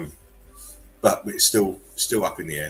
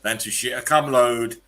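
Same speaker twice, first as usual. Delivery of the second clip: higher, louder hammed-up hero read; mock heroic announcer; 6 semitones higher, 8 dB louder than usual. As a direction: belt the meme like a cartoon hero. Reading a meme aloud.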